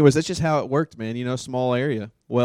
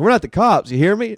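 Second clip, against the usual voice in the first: joking tough talk; 7 semitones higher, 7 dB louder than usual. Retold or imitated. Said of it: "I was like".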